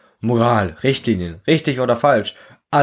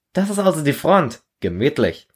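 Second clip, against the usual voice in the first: higher, wry joke on arrival; a light soldier's joke at the grim front; joking Arthur; 6 semitones higher than usual. Acted. Arthur joking to his comrade at the front, higher. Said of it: "scherzt Arthur".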